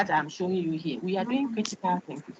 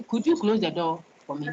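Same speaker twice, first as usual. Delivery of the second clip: polite request. Shown as a demonstration. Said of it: "But if I say".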